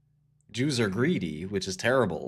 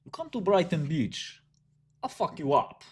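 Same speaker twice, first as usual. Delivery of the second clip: put-on high-pitched threat in a Russian accent; Brooklyn Russian accent; 7 semitones higher than usual. Brooklyn Russian threatening a rival, mock Russian accent. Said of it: "I'm Brooklyn Russian".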